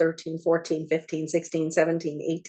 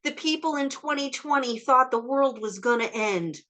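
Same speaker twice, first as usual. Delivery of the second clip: amused future person; 9 semitones higher than usual. Retold or imitated. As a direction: look back on the past with mock pity. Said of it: "they'll be like".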